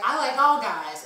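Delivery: emphatic. Retold or imitated. Emphatic reply to drunk man.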